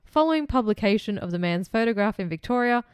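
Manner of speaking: measured reading of a case file; true-crime narration. A narrator's reading. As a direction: read the account out formally, in phrases. Reads the case script.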